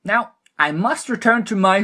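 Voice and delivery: a mischievous little gnome teasing from above; gleeful gnome. A narrator's reading. The gnome taunts the blood trolls, high and impish. Gnome's smug farewell, cut off.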